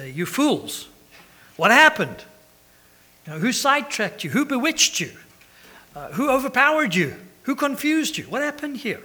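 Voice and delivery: loud, high rebuke of foolish believers; rebuking shout. Retold or imitated. Paul rebuking the Galatians as fools, shouting high. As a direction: scold them like a stern preacher. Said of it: "he calls them fools".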